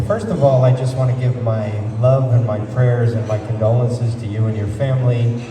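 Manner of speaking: ordinary talk, nothing marked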